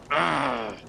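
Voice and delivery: angry sailor's snarl; a short, rough snarl. Acted. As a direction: growl it out like a cornered dog. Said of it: "literally snarls at you".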